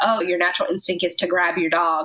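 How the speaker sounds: ordinary delivery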